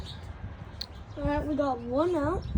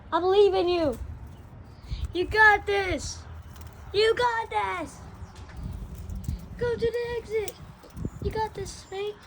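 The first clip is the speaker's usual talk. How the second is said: cheering on; 4 semitones higher than usual. Real, not acted. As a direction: hype the bird up. Cheering on the bird.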